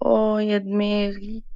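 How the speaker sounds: whispered moan of pain; whispered groan. Acted. Beaten fiancée moaning about her head, whispered pain. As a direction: whisper it, clutching a sore head.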